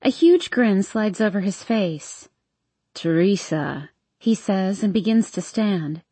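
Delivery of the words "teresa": put-on drunk British guy. Hardin's drunk teasing voice.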